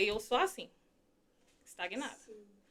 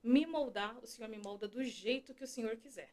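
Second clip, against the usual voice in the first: soft prayer; 7 dB quieter than usual. Retold or imitated. Prays after the hymn.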